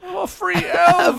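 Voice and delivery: very high, slow elf squeal; Dobby impression. Host as Dobby celebrating his freedom, very high and slow. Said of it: "as Dobby the house elf".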